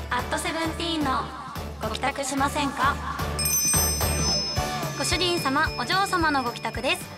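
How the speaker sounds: maid cafe voice. Acted. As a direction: greet masters like a cafe maid. Maid-cafe greeting in character.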